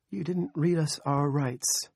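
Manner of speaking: high, slow tearful complaint; weeping protest. A narrator's reading. Crying woman to the men taking her dope, weeping protest. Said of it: "she wept".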